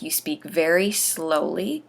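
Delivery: slow, deliberate demonstration of careful speech; slow, eloquent. Shown as a demonstration. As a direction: stretch it out slowly and carefully. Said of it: "I do recommend that when you speak".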